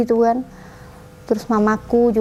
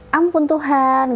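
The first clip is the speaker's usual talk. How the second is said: long drawn-out, higher-pitched lament; slow exclamation of dismay, retold; 5 semitones higher, much slower than usual. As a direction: imitate a dismayed father, stretching it out slowly. Retold father's dismay at her conversion.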